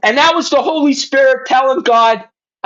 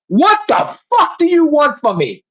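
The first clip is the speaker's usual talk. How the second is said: retold angry outcry to God, higher-pitched; raised-pitch, exasperated plea; pissed off; 5 semitones higher than usual. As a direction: demand an answer from the heavens, mildly heated. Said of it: "I'm pissed off".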